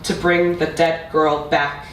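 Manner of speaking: measured recital with long pauses; spoken-word poetry. Acted. Poet addressing mother about a lost language, measured spoken-word delivery. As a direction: let each line land before the next. Recites own poem to audience.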